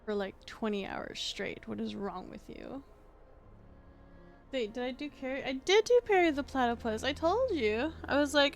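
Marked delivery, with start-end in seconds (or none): 0.0-2.8 contemptuous cat. Pretend. Cat scolding its owner for staying up, mild mock contempt. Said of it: "looking at me with such contempt".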